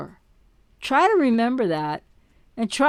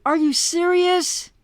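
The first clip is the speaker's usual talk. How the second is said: incredulous; 5 semitones higher than usual. Retold or imitated. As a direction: ask it in pure disbelief. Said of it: "it's like".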